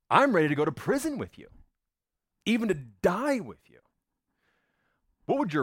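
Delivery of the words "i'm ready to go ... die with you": 1 fervent pledge. Acted. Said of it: "he goes".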